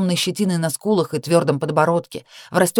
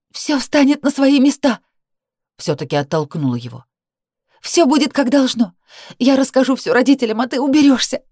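high furious shout; 7 semitones higher than usual. Acted. Heroine furiously threatens Danil.

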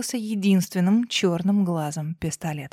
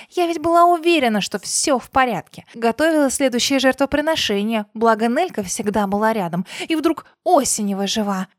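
enraged boss roar; 3 semitones higher than usual. Acted. Villain continues ranting.

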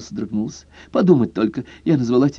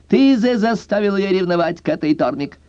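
giggly; 9 semitones higher than usual. A narrator's reading. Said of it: "хихикнула Зорка".

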